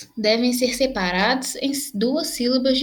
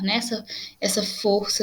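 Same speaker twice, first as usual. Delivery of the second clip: ordinary talk, nothing marked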